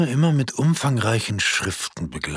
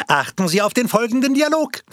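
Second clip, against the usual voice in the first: high, raised call to the audience; projectionist calling out; 13 semitones higher, 4 dB louder, faster than usual. Acted. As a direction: announce it like a projectionist over the crowd. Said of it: "rief der Filmvorführer". (Filmvorführer ruft dem Publikum laut und hoch zu)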